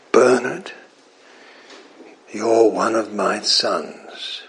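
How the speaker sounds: God speaking. Acted. God telling Bernard he is a son. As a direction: speak as a loving father. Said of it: "what God says to me?".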